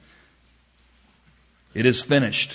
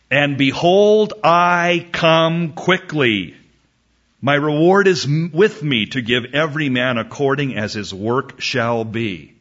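scripture proclamation; 4 dB louder than usual. Acted. Preacher reads Revelation's promise to the congregation, proclaiming. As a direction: herald the promise, drawing out the first words.

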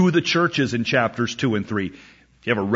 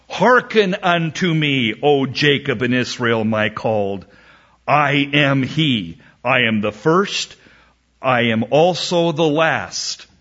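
emphatic, declamatory Bible reading; scripture proclamation. Acted. Preacher reads God's words to the congregation, proclaiming. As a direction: proclaim the verse as God speaking.

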